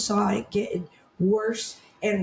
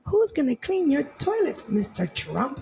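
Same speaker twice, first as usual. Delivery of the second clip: mock British accent, higher on the question; Kelly Osbourne; 5 semitones higher than usual. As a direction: mimic her haughty question in a British accent. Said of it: "In her British accent".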